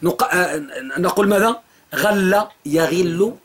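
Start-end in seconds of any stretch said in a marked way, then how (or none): 1.9-3.3 slow drawn-out dictation. Shown as a demonstration. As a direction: spell it out slowly for students to write. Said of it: "أعيد". (إملاء بطيء)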